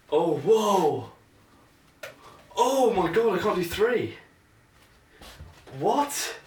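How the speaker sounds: high, loud shocked exclamation; real surprise. Real, not acted. Fumbling the easy juggle, high startled shout. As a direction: blurt it out, caught off guard. Fails at three-ball juggling.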